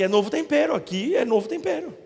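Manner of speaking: fiery pulpit call; preaching shout. Real, not acted. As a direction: lift the crowd with it. Preacher exhorting congregation.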